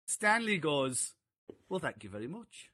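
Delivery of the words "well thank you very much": put-on softer, modest old gentleman's thanks; lightly voiced gracious old star. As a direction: accept the compliment gently. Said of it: "it was so, so gracious".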